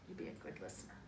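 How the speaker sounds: a low, soft voice for the toy; lightly voiced toy answering mom; pretend toy voice. Talking to the child as the toy, low and soft.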